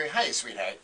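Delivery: low-pitched cool tough guy; effortlessly cool, low endearment; Dennis Farina. Retold or imitated. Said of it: "this is a tough guy".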